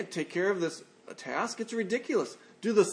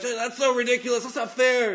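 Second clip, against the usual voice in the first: mock outraged yell; 6 semitones higher, 3 dB louder than usual. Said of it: "they were yelling at you".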